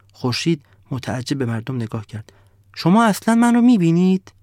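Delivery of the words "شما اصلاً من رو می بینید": high, loud disbelieving question; incredulous sun. Acted. The sun asking the villagers if they see it, high and loud. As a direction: ask as if they must be blind.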